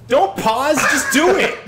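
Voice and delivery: high, loud panicked plea; urgent, shrieked command; panicked yell. Real, not acted. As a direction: shout it in a real panic. Panicked at opening curtains in horror game.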